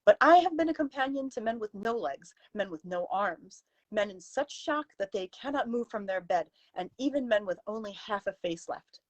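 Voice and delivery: growing harsher. Acted. Companion rebuking her employer, voice turning harsher. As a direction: lecture that hardens as it goes. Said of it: "Her voice had grown harsher along the way".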